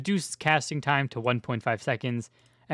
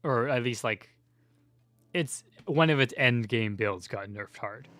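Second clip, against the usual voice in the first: out of breath. Real, not acted. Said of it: "give me a minute to catch my breath".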